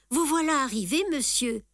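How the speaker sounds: politely deferential, lifted a little; respectful. A narrator's reading. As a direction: address him with gentle respect. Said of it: "d'un air très respectueux". (d'un ton très respectueux)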